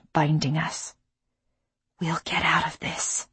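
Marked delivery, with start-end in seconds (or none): 2.0-3.3 soft unvoiced whisper. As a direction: breathe it as a secret promise. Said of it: "I whispered again".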